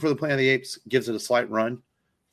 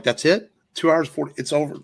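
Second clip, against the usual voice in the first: higher and louder, can't believe it ended; stunned disbelief; 5 semitones higher, 4 dB louder than usual. Retold or imitated. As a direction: caught off guard that the film is already over. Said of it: "I'm like".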